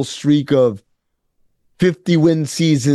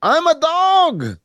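quoting Bruce Brown; 9 semitones higher than usual. Retold or imitated. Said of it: "He said".

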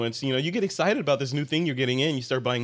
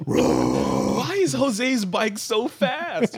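laughing; 8 semitones higher, much slower than usual. Real, not acted. Laughing joke about doping.

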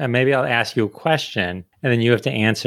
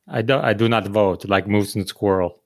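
imitated cartoon Russian accent; mock Russian accent. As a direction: mimic a Russian accent, slowing down. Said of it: "Okay, Russian".

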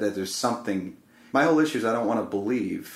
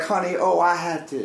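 higher, lightly voiced sweet old lady; cooing old woman; 7 semitones higher than usual. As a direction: coo it like a kindly grandmother. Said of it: "she had, like, an accent".

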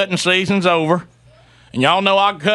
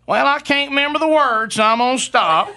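imitating the wife; 6 semitones higher than usual. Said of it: "And all she goes".

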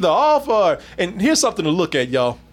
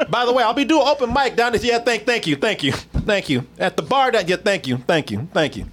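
brash vaudeville comic; 3 semitones higher than usual. Acted. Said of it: "brought his A material".

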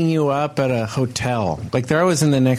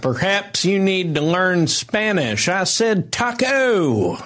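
high, slow condescending redneck drawl; mock Southern redneck; 8 semitones higher, much slower than usual. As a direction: talk down to the waiter, slowly. Continues mock Southern rude voice.

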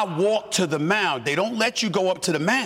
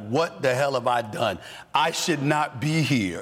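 stunned self-questioning; 7 semitones lower than usual. Retold or imitated.

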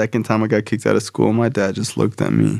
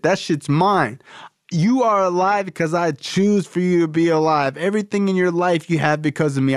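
dad's rant, climbing higher, line after line; a furious father listing all he paid for; angry dad rant; 6 semitones higher than usual. Retold or imitated.

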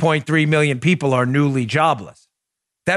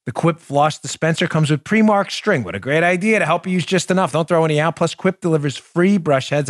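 brisk, upbeat sponsor read; friendly host-read commercial. Acted. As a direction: sell it like a podcast ad.

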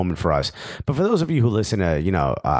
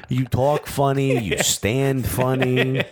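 slow, drawn-out mock Jersey accent; Bob Bradley; much slower than usual. American coach offending the Welsh, slow Jersey-accent jabs. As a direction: stretch each jab in a light Jersey accent. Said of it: "knocked the Jersey accent out".

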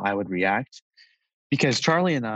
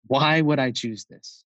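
slow, raised-pitch retold challenge; intense, almost angry; 4 semitones higher, slower than usual. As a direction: imitate an intense, drawn-out protest. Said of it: "he said it almost not angrily, but really intensely".

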